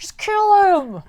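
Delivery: high, loud, stretched-out jeer; mock crowd scream. Crowd member demanding death at the sentencing, mock screaming. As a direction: imitate a heckler howling for blood. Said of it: "screaming at him".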